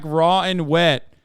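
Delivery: drawn-out, half-hearted kitchen yell; slow mock holler; mock yell from the back. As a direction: call it out slowly, mock yelling. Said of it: "a woman yell from the back".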